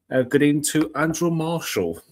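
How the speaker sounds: a hint of upper-class English on Andrew Marshall; briefly posh presenter voice; accidental posh voice. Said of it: "I don't know why that went posh".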